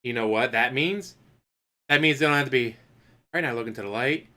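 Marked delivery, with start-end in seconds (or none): 3.3-4.3 mock ASMR artist. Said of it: "an A S M R artist".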